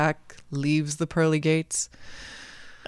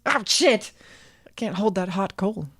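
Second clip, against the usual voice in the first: higher yelp, then grumbling; burnt Jack; 4 semitones higher than usual. A narrator's reading. Jack dropping a hot coal from hell, pained yelp. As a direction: yelp as the coal scorches your fingers.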